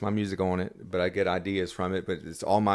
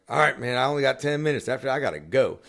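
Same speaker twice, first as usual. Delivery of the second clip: louder, higher hurried announcement; rushed brush-off; 6 semitones higher, 7 dB louder than usual. Retold or imitated. Singer tells his friend at Rippy's he only has minutes, loud and hurried. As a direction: briskly tell the friend he's short on time. Telling friend he's in a hurry.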